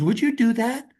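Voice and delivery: a hint of a grateful old woman; elderly lady voice. Stranded old lady asks the young driver, in a light old-lady voice. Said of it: "She goes".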